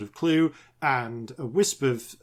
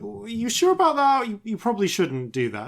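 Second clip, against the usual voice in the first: warning princess; 8 semitones higher, 5 dB louder than usual. Retold or imitated. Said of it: "the princess is like".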